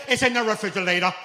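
put-on plain kid retelling; lightly voiced daughter. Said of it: "My daughter used to say".

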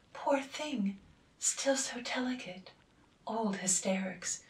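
murmured, half-whispered pity; whispered gossip. A narrator's reading. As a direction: hush it like gossip passed along. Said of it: "were whisperingly repeated".

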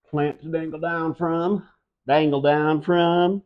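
put-on a touch of a southern accent on dangle down from. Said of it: "You like my southern accent?".

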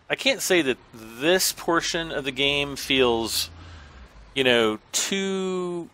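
muffled behind a hand; hand over mouth. Shown as a demonstration. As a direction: speak through your hand, slow. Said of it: "here, I'm talking with my hand over my mouth".

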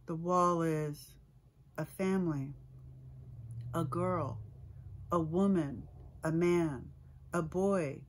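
measured poem recital with weighted pauses; poetry reading. Acted. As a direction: read the poem aloud, phrase by phrase, letting each image land. I'm gonna read from new work.

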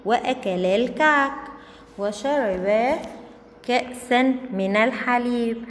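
put-on slow, careful reading to young pupils; story read-aloud. Teacher reading a first-grade story to the class, careful read-aloud. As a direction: read it out word by word for children.

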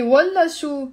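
والله شو with a falling tune; scornful refusal. Shown as a demonstration. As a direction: dismiss it with والله شو, falling at the end. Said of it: "Look at the tone of my voice".

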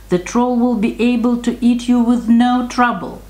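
lightly voiced warning, pitched high; worried brother goats. A narrator's reading. Brothers warn the youngest about the troll, mild high warning.

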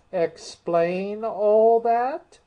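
high, loud, slow outburst; astonished. A narrator's reading. Mock Turtle astonished.

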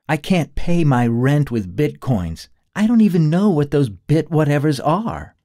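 pushy partner needing rent money; Allie's voice. Acted. A hint of Allie.

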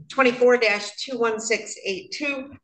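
words stretched by a yawn. Real, not acted. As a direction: say it mid-yawn. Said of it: "just yawned".

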